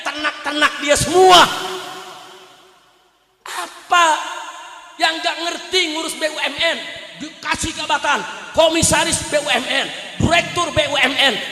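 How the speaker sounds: loud, shouting sermon at full force; fiery preaching. Acted. Preacher rousing the crowd against corrupt officials, shouting. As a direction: hammer each phrase at the crowd.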